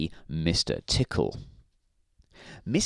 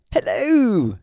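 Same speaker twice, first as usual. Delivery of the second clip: grinning; 12 semitones higher, 6 dB louder than usual. A narrator's reading. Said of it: "grinned Mister Happy".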